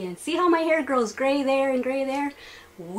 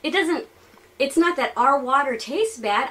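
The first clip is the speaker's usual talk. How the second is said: ordinary talk, nothing marked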